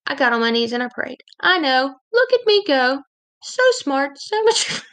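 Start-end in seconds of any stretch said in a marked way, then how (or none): 1.4-4.8 sarcastic high, bright self-congratulation; mock self-praise. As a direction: pat yourself on the back, mockingly. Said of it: "I can't even say that without laughing".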